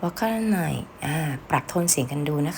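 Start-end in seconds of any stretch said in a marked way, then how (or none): 0.0-0.7 friendly "I don't get it"; said nicely. Shown as a demonstration. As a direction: say it kindly, no edge. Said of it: "ถ้าเกิดพูดดีๆ".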